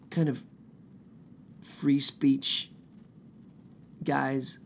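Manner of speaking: free speech guys in a whisper; whispered aside. Pretend. Sarcastic aside about Proud Boys.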